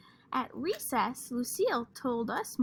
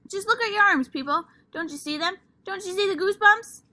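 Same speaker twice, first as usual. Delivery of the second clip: insistent excitement; 9 semitones higher, 8 dB louder than usual. Acted. Lucille demanding goosebumps.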